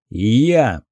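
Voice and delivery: steady, unhurried answer; calm. Acted. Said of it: "спокойно сказал капитан". (спокойно)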